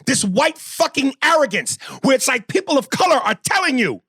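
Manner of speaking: high, impassioned rant; real heated accusation; infuriated. Real, not acted. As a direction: call out a friend's arrogance, exasperated. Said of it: "it's infuriating".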